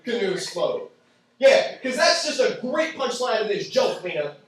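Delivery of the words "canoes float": low, flat-voiced repeat of the dumb answer; dry, deadpan echo. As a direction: let the answer drop with scorn. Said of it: "I'll let that sink in".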